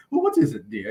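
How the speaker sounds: high, lightly voiced Miss Piggy asking. Retelling the scene to co-host, high Miss Piggy voice. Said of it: "and she's like".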